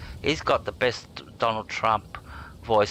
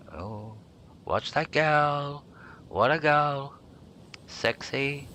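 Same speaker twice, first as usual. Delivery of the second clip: higher, slow, put-on Trump voice; Donald Trump impression; 6 semitones higher, slower than usual. Streamer showing chat how Trump talks, in a slow higher put-on voice. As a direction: draw out the words like a Trump rally boast. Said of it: "having Donald Trump doing a commentary".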